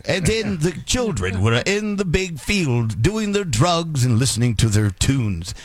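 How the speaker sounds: slow, formal vintage newscaster read; old-time announcer voice. Shown as a demonstration. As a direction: read it like a sixties network anchor. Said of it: "you must read like an announcer".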